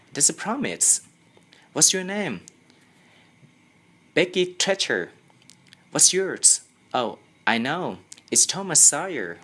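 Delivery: bubbly schoolgirl thrilled by a promise; excited girl. Acted. Girl to Tom in class, high and eager.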